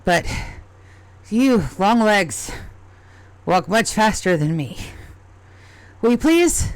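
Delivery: a small goblin begging for help; a lightly voiced worried goblin asking for its lost cat; pleading goblin.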